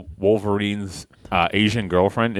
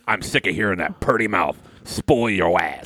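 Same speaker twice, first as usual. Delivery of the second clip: mock angry outburst in character; Chuck. Chuck cutting off the spoiler talk, mock shouting. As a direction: interrupt with a hammed-up shout, then settle.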